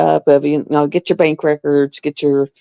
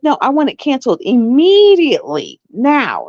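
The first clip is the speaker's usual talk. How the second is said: retold angry demand; 5 semitones higher than usual. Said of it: "I was yelling at her".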